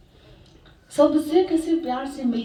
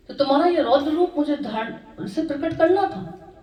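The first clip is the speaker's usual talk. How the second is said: lightly voiced god explaining, pitched higher; Bhole Baba; 5 semitones higher than usual. Shiva explains to his wife why her fierce form appeared, lightly acted explanation. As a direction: explain it patiently in a raised storytelling pitch. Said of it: "तो भोले बाबा ने उनसे कहा".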